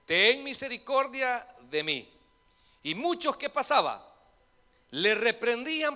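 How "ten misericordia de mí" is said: higher, loud plea; crying out. Acted. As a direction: call out to Jesus from the roadside. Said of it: "Y a decir".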